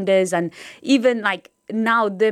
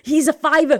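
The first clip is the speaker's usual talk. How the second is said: higher and louder nagging parents; lightly voiced fussing parent; slightly raised voice of a parent scolding about the frock; 6 semitones higher, 3 dB louder than usual. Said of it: "My mum and dad used to be like".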